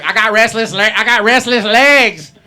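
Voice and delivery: hammed-up high-pitched yelling; over-the-top indignant shriek; hysterical insistence. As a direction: shout it like a frantic sufferer, stretching the last words. Acts sufferer insisting syndrome is real.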